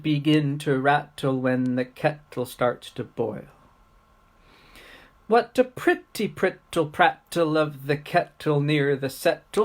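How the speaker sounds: crisply articulated tongue-twister rhyme; rhythmic poem recitation. Acted. Teacher reciting a kettle poem as speech practice, rhythmic recitation. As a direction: keep a steady bouncing beat through the rhyme.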